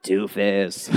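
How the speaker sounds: slow, lightly voiced scolding; scolding Jesus. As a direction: drag out a mock rebuke.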